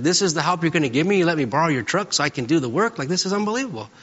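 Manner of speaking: reliving his frustration at being left alone with the move; retold upset. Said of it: "I got upset".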